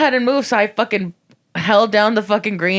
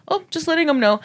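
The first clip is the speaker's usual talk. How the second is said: higher, light innocent reply; mock innocent; 8 semitones higher, faster than usual. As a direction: sound sweetly oblivious. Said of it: "he's like".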